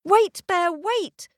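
high, loud urgent call. A narrator's reading. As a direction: shout after him from upstairs. Girl calls after the bear.

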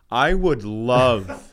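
slow, emphatic comeback; relishing retort. Retold or imitated. Comic answering a husband's threat, slow and relishing. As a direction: stretch it out with mock relish.

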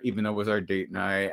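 ordinary delivery

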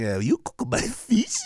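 put-on slow, accented, outraged sushi chef; hammed-up Japanese accent; mock Japanese chef. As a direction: drag out an appalled chef's question in a Japanese accent. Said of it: "Japanese fucking sushi chef is crying".

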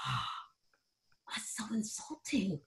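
hushed whisper; whispered mock offense; whispered aside. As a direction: whisper it under your breath in shock. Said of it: "And I went".

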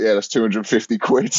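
barman's line broken by a laugh; can't keep a straight face delivering the punchline; laughing through the quote. Retold or imitated. Comic retelling the barman's bill, laughing.

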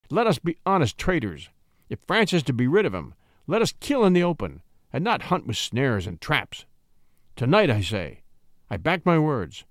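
controlled violence. Acted. Captain urging the plotters at table, controlled fury. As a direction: menace held on a tight rein. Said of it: "said with controlled violence".

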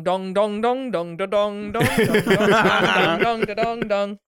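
playful mock bell chimes; imitating bells. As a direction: chime the dongs out like bells tolling. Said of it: "the cathedral bells go".

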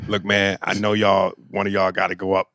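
lightly voiced club booker; Pookie. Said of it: "Pookie comes up and goes".

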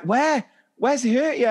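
high, urgent questioning; concerned teacher. Retold or imitated. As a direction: ask quickly like a worried teacher. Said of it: "I'm like".

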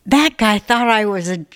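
imitating an excited friend, last word drawn out; mildly gushing retold quote, slowing on the last word. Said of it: "She's all excited. She goes".

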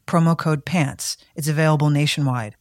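upbeat, punchy sponsor read. Acted. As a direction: sell it loud and clear. Reads sponsor ad.

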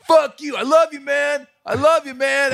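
high, frantic strained yelling; hammed-up unhinged fan screaming love and abuse; complete meltdown. Fan losing it at the announcer, complete screaming meltdown. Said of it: "he had a complete meltdown".

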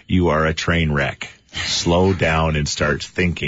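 slow, measured mock telling-off; imitating scolding wife. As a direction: spell it out slowly, quoting an exasperated wife. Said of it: "As my wife would say".

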